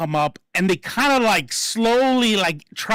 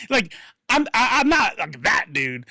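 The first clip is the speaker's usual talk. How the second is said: ordinary talk, nothing marked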